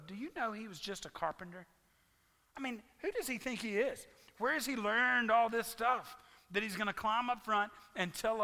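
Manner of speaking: mildly mocking, dismissive voice; scornful townspeople. Pastor voicing the dismissive townsfolk, a touch scornful. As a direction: sneer lightly at the upstart. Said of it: "saying negative things about Jesus".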